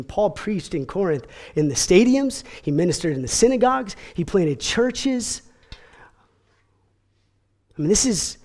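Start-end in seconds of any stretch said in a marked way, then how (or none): 4.1-5.4 whisper. Real, not acted. Sermon drops to hushed aside.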